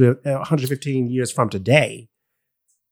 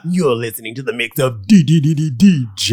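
radio DJ voice; 4 dB louder than usual. Pretend. Radio DJ station intro.

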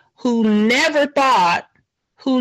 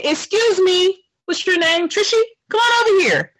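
mock calling out; 6 semitones higher than usual. Mocks calling out to server.

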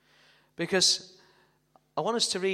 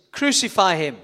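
loud cue; 8 dB louder than usual. Acted. Acted crowd shout.

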